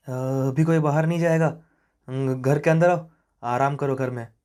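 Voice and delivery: mildly alarmed grandmother; fearful grandmother. Acted. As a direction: order them indoors with a touch of dread. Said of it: "दादी की आवाज़ में एक अजीब सा खौफ".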